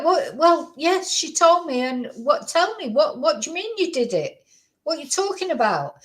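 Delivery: imagined parent's baffled comeback; acted bafflement. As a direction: press for an explanation in disbelief. Acts out own baffled reply to son.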